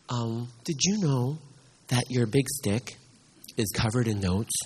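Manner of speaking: low, slow and careful, each word spelled out; slow repeat. Acted. Child repeats slowly for the pastor who didn't catch it. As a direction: say it again slowly so he really hears.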